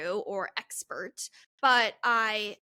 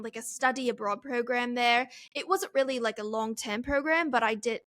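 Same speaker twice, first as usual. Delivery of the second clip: British accent that keeps slipping toward Australian; attempted British accent. Shown as a demonstration. Podcaster showing off her British accent to listeners, drifting Australian. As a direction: try your proud British accent and let it drift Australian. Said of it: "now it sounds Australian".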